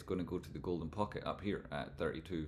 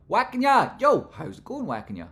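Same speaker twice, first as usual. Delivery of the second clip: shouted hello, high and loud; loud greeting; 14 dB louder than usual. Real, not acted. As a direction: call out a big hello.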